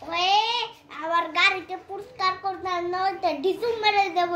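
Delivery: a child's hammed-up boxer voice; tough boxer threat. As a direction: threaten like a cartoon bully.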